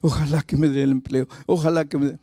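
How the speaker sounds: mock nervous wishing under the breath; hammed-up timid, repetitive pleading. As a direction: plead anxiously, like a trembling job seeker. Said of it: "Y tú temblando aquí".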